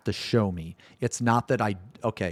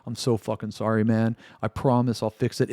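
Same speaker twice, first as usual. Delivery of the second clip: soft, mock-pitiful sorry, quieter; mock apology; 3 dB quieter than usual. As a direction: whimper out a fake apology like a sorry developer. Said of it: "them to be like".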